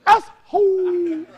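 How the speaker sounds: long, high, hammed-up yell of assholes; drawn-out yell. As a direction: stretch it out and holler it slowly. Mocking the women's representatives.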